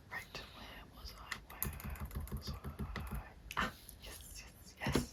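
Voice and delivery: slow, absent-minded whisper; whispering to oneself. Acted. Interviewer hunting for her place in the questions, whispering slowly. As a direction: whisper slowly while finding your place.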